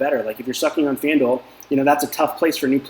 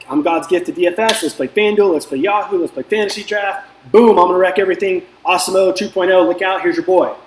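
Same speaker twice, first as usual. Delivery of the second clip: cocky bragging; 4 semitones higher than usual. Retold or imitated. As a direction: brag like you can't lose. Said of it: "and then I'm like".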